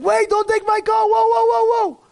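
high, loud cry of alarm; father shouting to stop his son; panicked shout. Acted. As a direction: yell to stop the kid taking the car. Father sees son take car.

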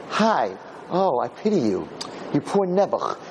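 drawn-out mock sympathy; condescending pity. Giver to a beggar on the floor, patronizing pity. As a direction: coo pityingly at someone beneath you. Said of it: "because you pity them".

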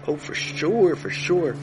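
breezy royal assent; a king gives easy permission; royal figure. Acted. King answers casually.

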